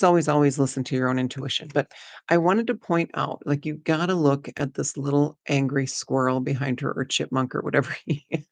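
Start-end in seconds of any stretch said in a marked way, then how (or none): none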